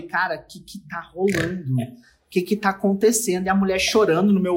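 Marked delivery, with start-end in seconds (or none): 0.0-3.5 hushed, much softer confused thought; quiet inner panic. Retold or imitated. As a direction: whisper it to yourself, bewildered. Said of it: "porque eu falei".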